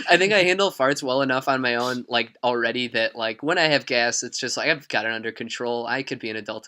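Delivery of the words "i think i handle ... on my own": giggling while repeating; laughing. Real, not acted. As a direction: say it through laughter.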